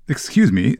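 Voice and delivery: mildly sneering schoolboy interruption. Acted. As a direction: put a light sneer into it. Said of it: "said Malfoy in a sneering voice".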